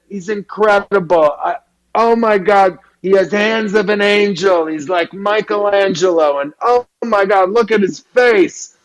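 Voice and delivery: high, gushing New York voice; Harvey Fierstein. Retold or imitated. Head of the school praising the grandson's face, high and gushing. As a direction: rave breathlessly about the boy. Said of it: "he sounded like Harvey Fierstein".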